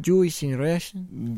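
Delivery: slow mock Russian accent; muddled Jewish-Russian accent, drawn out. Confirming friend's guess, mock Russian accent. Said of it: "It sounds like Russian".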